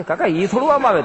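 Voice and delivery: laughing seller. Acted. Seller laughing at silly questions.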